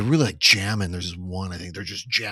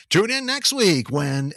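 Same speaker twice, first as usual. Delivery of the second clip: slow, drawn-out announcer teaser; slow cartoon announcer; 6 semitones higher, slower than usual. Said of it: "the announcer would always say something like".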